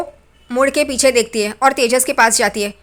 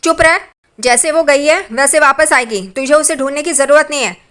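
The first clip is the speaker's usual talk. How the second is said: louder, higher mock scolding of her son; imitated angry mother; 3 semitones higher, 4 dB louder than usual. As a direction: warn him off in a retold temper. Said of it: "उस पे गुस्सा हो जाती है तेजस पे". (बेटे को नकली गुस्से में ऊँची आवाज़ में डाँटना)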